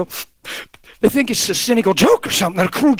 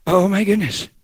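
understated scandalized gasp of words; imitated dismay; 2 semitones lower than usual. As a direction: react as a judgmental counselor. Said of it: "Almost always go".

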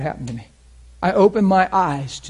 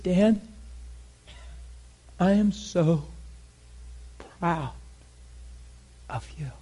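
God's proud tender voice; 3 semitones higher, 5 dB quieter than usual. Retold or imitated. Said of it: "He said".

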